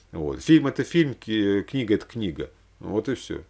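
normal talking voice

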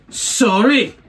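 high, loud mock apology; old lady's apology. Old lady to singer on stage, calling out loudly.

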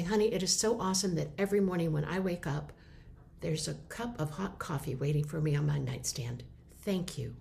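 softening to a near whisper of thanks; sincere and tender, thanking him for the coffee; specific grateful compliment. Retold or imitated. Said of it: "On the other hand".

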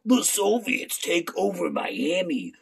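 slow, hammed-up B-movie dread; over-the-top fake distress; mock panic. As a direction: play a campy damsel facing invaders. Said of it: "because it's like".

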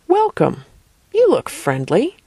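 lightly friendly creature greeting, lifted pitch; high, welcoming first word, then easing down. A narrator's reading. Flying creature greets the girl in her head, friendly. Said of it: "The voice seemed friendly".

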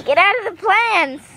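exasperated command to a disobedient cat; scolding the cat. Real, not acted. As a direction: shoo a pet out, voice climbing. Scolding escalates as cat stays.

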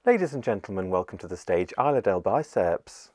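announcing like a drag show host; sassy drag queen. Acted. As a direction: introduce the act with flair. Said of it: "That sounds like a drag queen name".

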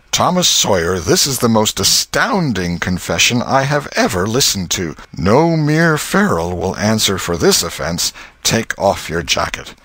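a pompous master handing down punishment; outraged schoolmaster. Acted. Master sentencing Tom before the class, stern and outraged.

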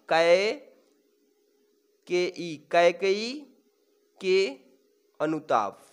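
"कैकेयी के अनुताप" slowly, pausing between words; word-by-word dictation. Shown as a demonstration. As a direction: break "कैकेयी के अनुताप" into separate, drawn-out pieces. Teacher dictates title word by word. ("कैकेयी के अनुताप" को रुक-रुक कर धीरे बोलें)

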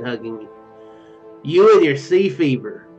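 ordinary talk

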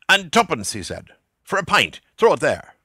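Buck Mulligan's voice. A narrator's reading. Mulligan asks for money.

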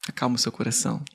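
soft, hushed comforting voice; gentle reassurance. Retold or imitated. Woman looks deep into the storyteller's eyes, gentle reassurance. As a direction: quietly soothe a troubled heart.

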